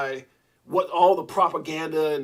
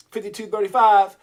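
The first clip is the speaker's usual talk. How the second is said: hyped; 3 semitones higher, 8 dB louder than usual. Real, not acted. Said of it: "I'm getting a little too hype".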